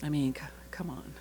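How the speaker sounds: whispered in disbelief; hushed, awestruck aside; awed whisper. Real, not acted. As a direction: breathe it out, stunned. Awed aside about fate.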